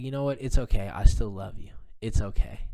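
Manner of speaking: calm reassurance. Retold or imitated. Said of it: "And I was so calm".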